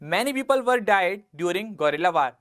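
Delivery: very slow, word by word; careful teacher dictation pace. Shown as a demonstration. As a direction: read the example slowly for students to copy.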